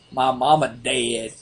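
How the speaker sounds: lightly voiced kid, slow and drawn out; little kid. Orphaned kid answering the man, lightly imitated little kid. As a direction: stretch the words like a deadpan movie child. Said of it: "the kid's like".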